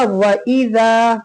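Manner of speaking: "वइज़ा" with quick "वइ", long drawn "ज़ा"; careful recitation. Shown as a demonstration. Teacher showing learners which letters to stretch, careful recitation. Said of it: "वाव को अलिफ को जल्दी".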